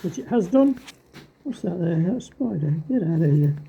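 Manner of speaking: speaking through a paint mask; words muffled by a mask. Real, not acted. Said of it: "Hope you can hear me again over my muffled mask".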